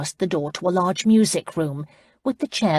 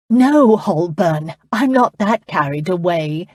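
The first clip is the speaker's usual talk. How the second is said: laughing; 6 dB louder than usual. A narrator's reading.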